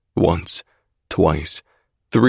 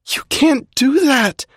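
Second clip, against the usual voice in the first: high loud shout; 4 dB louder, slower than usual. A narrator's reading. Alex shouting at Zai, high loud shout. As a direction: shout it at him. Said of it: "she shouts at me".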